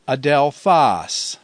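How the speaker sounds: adelphos slowly, with a strong final PHOS; accent on the end. Shown as a demonstration. Teacher showing the grave, adelphos with its end stressed. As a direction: say "adelphos" slowly, weight on the last syllable. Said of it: "used at the end of a word".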